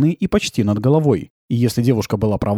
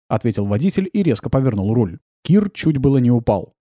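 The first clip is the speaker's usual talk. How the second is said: ordinary delivery, nothing marked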